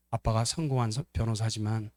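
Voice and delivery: tender concession. Acted. Loving son agrees with sibling about Dad, tender. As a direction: concede it gently. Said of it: "이렇게 말할걸요".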